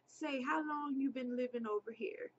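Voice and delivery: broken English. Retold or imitated. Man questions a passing girl, in half-hearted broken English. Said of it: "in the most broken English. I can't do the accent".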